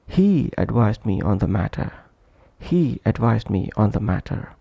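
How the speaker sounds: "He" and "advised" given clear weight; stressed content words. Shown as a demonstration. Teacher giving an example of stressed one-syllable words, "He" held clearly. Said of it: "the sole syllable should be stressed".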